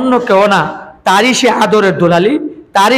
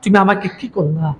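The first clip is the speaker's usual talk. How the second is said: screaming to mother; 3 semitones higher than usual. Acted. Daughter in hellfire cries out to her mother, anguished high shout. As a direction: wail it like a daughter burning in fire. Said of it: "চিৎকার দিয়ে দিয়ে বলতেছে".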